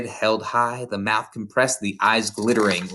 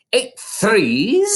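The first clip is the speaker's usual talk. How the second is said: high, loud barked question; shout; 9 semitones higher, 4 dB louder than usual. A narrator's reading. Headmistress shouting at the boy she swings, high and loud. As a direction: bark it at the dangling boy. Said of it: "Miss Trunchbull shouted".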